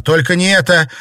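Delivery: high loud cry of despair; desperate cry. Acted. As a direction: plead in anguish at the top. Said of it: "в отчаянии закричала она".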